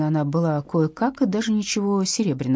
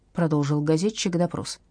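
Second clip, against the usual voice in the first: ordinary delivery, nothing marked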